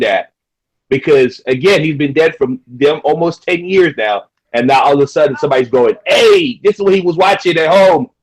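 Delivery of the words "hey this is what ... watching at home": mock announcer. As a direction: play the gossip outlet breaking news. Mocking quote of a news source.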